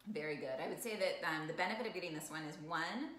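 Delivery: talking while chewing; eating while speaking; mouth full. Real, not acted. Seen 1: Woman just took fork bites; hand and fork at mouth while speaking.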